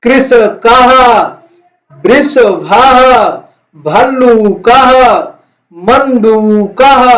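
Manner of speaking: each word stretched out slowly; slow recitation for class. Shown as a demonstration. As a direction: drill the words slowly for the children. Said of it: "फिर से एक बार उच्चारण करेंगे". (धीमा, खिंचा हुआ पाठ)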